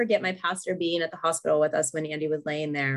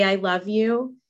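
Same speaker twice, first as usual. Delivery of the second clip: gentle comfort. Shown as a demonstration.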